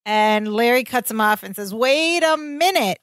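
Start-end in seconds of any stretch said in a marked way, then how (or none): 1.7-3.0 higher and slow, can't believe it; incredulous. Retold or imitated. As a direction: stop him, disbelieving. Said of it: "And he's incredulous".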